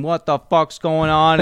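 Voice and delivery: half-yelled outrage, slow and high; retold yelling. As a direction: imitate an officer demanding answers. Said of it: "comes yelling".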